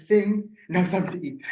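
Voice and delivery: normal talking voice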